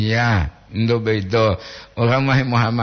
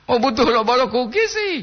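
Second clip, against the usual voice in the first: put-on squeaky voice; 10 semitones higher than usual. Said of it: "repeated in a put-on voice".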